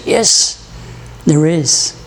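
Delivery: lightly voiced calm voice from above; a hint of God answering from the sky; calm powerful voice. Voice from heaven answering the man, lightly calm. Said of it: "powerful voice, calm voice".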